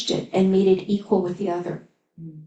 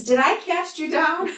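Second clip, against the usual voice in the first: retold cry; 8 semitones higher than usual. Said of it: "makes him alive and says".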